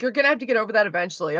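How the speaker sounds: fast, brushed-off mockery of dad's advice; mocking dad. Daughter mocks her dad's careless advice, fast and offhand. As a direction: rattle it off like it's nothing. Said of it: "like a slap in the face to hear that".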